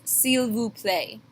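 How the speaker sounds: S'il vous plaît, seel voo play, slow; slow French demo. Shown as a demonstration. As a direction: model the polite phrase slowly. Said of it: "which is".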